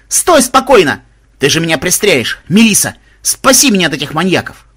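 high, loud frantic shouting; panicked plea. A narrator's reading. Mahmud begging Melisa to save him, panicked shout. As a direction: plead loudly in alarm. Victim begs not to be shot.

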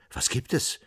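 mildly alarmed reply; startled. A narrator's reading. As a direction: ask with a touch of fright. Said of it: "fragte erschrocken Herr Butzifall".

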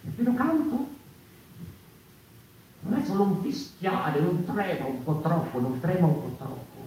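very high, loud, strained voice; the voice of the true song, very high and strong; soaring cry. Acted. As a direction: reach up as if singing.

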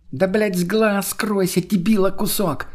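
высокий, протяжный раздражённый окрик; растягивай слова, будто кричишь издалека, но без полной громкости; крик через стоянку. A narrator's reading. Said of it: "не выдержала она и крикнула ему через всю стоянку". (сорвавшись, высоко и медленно окликает)

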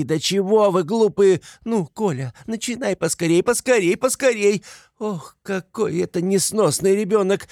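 high, harried, exasperated cries; frantic mother. A narrator's reading. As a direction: nag and hurry them at a high pitch. Frantic mother hurries children, berates soldier. (истеричная мать, высокий раздражённый голос)

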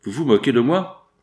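loud, rough creditor; brutal tone. Acted. Creditor storms into the office, brutal and loud. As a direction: bark it at the clerk brutally. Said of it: "fit le nouveau venu d'un ton brutal".

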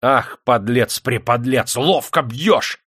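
slow, drawn-out admiring exclamation; delighted. A narrator's reading. Master admires the miner's punch, delighted. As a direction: relish the insult as praise. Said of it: "топтался Демидов подле рудокопщика в совершенном восторге".

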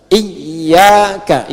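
"Iyyaka" drawn out on a doubled y; model for repeating. Shown as a demonstration. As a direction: say "Iyyaka" slowly for the class, y held. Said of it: "Ayo baca". ("Iyyaka" pelan dengan tasydid, untuk ditirukan)

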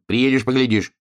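lightly voiced alien sneer; curt Martian. A narrator's reading. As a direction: brush him off as the Martian. Martian brushing off wolf.

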